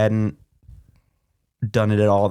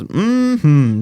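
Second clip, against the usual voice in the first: 1930s movie character; 5 semitones higher, 6 dB louder than usual. Retold or imitated. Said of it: "every day she goes".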